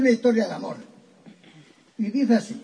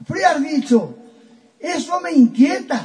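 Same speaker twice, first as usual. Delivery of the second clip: higher, more anxious frío has dicho; growing alarm; 5 semitones higher than usual. Acted. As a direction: push the worry up a notch. Pepa repeats, more alarmed. (Pepa, más alarmada y aguda)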